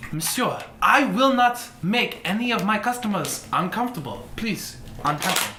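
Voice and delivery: courteous but firm shopkeeper; French-style tailor. Acted. Tailor refusing to budge for a customer, firm character voice. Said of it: "and he's like".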